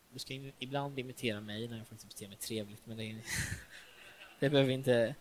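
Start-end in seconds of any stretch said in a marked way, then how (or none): 2.9-5.1 quick laughing aside; chuckling through a quick self-joke. Real, not acted. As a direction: laugh it off, fast. Self-deprecating joke to congregation.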